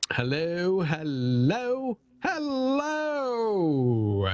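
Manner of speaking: a soft, hushed hint of the hypnotist's voice; Joseph Clough impression. Streamer doing a bad impression of Joseph Clough, soft and high. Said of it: "my best Joseph Clough impersonation".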